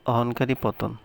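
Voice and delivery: plain reading voice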